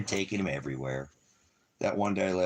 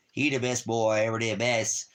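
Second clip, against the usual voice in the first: higher, put-on cooing voice; 6 semitones higher than usual. Real, not acted. Owner cooing at his dog in a higher sing-song.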